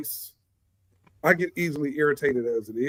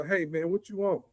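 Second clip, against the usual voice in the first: softer, easy question to a friend; casual offer; 7 dB quieter than usual. Shown as a demonstration. Heading out to the mall, asking a friend casually. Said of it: "I'm going out to the mall today".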